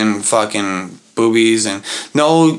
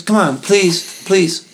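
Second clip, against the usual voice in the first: high, slow, drawn-out pleading voice; whiny begging; 6 semitones higher, slower than usual. Retold or imitated. Drunk buddy begging his friend for more, high whiny plea. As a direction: wheedle like a drunk friend who won't quit.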